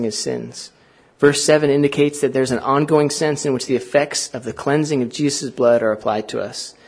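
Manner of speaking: deliberate, emphatic read-aloud; slow reading. Real, not acted. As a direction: read the quotation out slowly and firmly. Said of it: "try to read it slowly".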